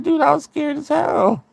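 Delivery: high-pitched exasperated excuse; retold defensive protest. Sister excusing herself to mad brother, defensive protest.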